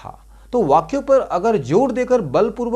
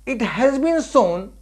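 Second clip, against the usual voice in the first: slow dictation; 6 semitones higher, much slower than usual. Shown as a demonstration. Teacher dictating an English example sentence.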